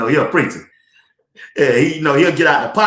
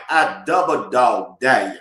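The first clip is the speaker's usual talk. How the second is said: low, slow drawn-out dare; lightly voicing grandma's warning; grandmama's dare; 4 semitones lower than usual. Grandson quoting grandmama's dare, slow and low. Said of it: "As my grandmama say".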